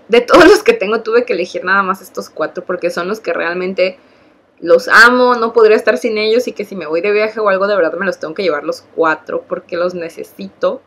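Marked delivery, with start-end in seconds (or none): 4.6-6.5 gushing love. Real, not acted. Loving her favourite blushes.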